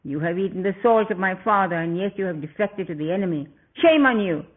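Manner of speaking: furious demon prince snarling; snarled. Acted. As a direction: spit out each accusation at the traitor. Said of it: "and snarled".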